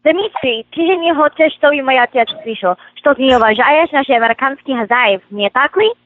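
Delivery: a memorised Russian film line, reeled off; rattled-off Russian. Shown as a demonstration. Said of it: "you rattled that off".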